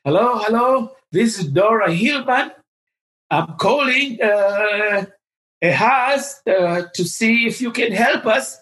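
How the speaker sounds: imitating a charming caller introducing herself; confident charming lady. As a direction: sound confident and charming on the phone. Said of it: "she's a very confident, very charming lady when she speaks".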